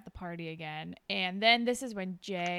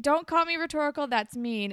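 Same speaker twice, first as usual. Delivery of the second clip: whiny Jay; 5 semitones higher, 4 dB louder than usual. Retold or imitated. Repeating Jay's retort as a quote.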